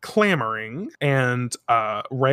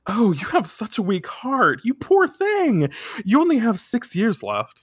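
mock pity fortune teller; 8 semitones higher than usual. Fortune teller pitying a girl with a weak heart, laughing. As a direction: coo pity while laughing through it. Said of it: "She says".

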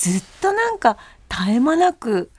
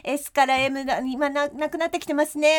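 TV shopping host; 2 semitones higher than usual. Pretend. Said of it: "ちょっとあなたがやってみてください。".

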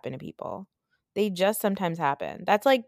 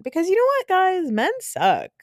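excited rally; 12 semitones higher, 4 dB louder than usual. Real, not acted. Rallying viewers against men.

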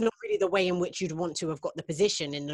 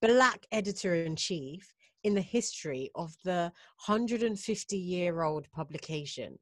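slow and emphatic announcement; slow dramatic reveal. Real, not acted. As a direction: draw out the big reveal. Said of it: "Wait for it".

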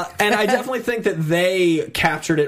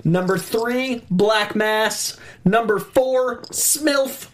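slow, spaced-out top-five countdown; countdown announcer; 2 semitones higher, slower than usual. Pretend. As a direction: announce each entry with a dramatic pause. Reads out a ranked list.

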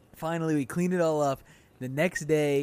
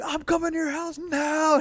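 much higher and louder, slow, with a laugh; mock furious yelling; 13 semitones higher, 6 dB louder than usual. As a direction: ham up the raging youth leader. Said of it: "She's like".

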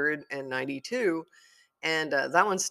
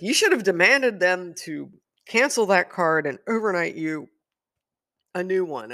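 bossy sister; 4 semitones higher, 7 dB louder than usual. Retold or imitated.

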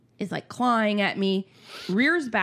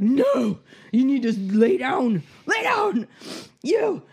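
rising, pitch climbing high and sharp on the last words; exasperated scolding; 5 semitones higher than usual. Retold or imitated. Mom retelling ordering her son to bed, escalating high scold. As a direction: scold a kid back into bed. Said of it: "I was like".

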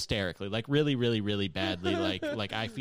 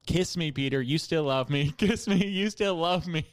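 higher, louder desperate plea; pleading ex; 6 semitones higher, 7 dB louder than usual. Retold or imitated. The ex begging Peter while her mom pulls her away, loud and high. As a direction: beg him to kiss you as you're dragged off. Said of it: "she's like".

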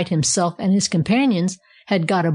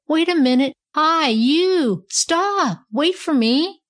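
high, drawn-out distant-style calls; shrieking monkey; 9 semitones higher, slower than usual. A narrator's reading. Monkey left behind begging riders to stop, shrieking. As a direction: call after them high, without real volume. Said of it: "the monkey shrieked as he landed".

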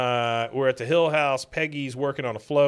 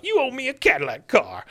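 put-on higher, louder accusing old man; angry codger; 12 semitones higher, 3 dB louder than usual. Cotton accusing his son, louder angry version. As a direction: demand it like a furious veteran.

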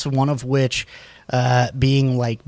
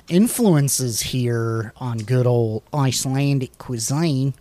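New Zealand accent; slower than usual. Real, not acted. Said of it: "I keep doing a New Zealand accent".

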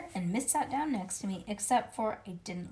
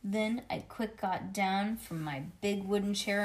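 plain reading voice

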